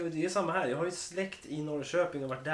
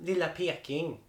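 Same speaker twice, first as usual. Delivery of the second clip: slow Norrköping drawl; Östergötland dialect attempt; 2 semitones higher, slower than usual. Shown as a demonstration. Host names Norrköping's nickname, drawn-out Östergötland accent. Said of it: "östgötska då".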